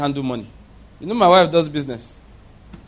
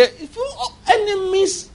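laughing; slower than usual. Real, not acted. Preacher breaks into laughter.

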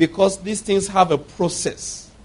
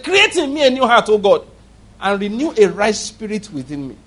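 quoted prayer; 3 semitones higher than usual. Retold or imitated. Ben Carson prays in closet.

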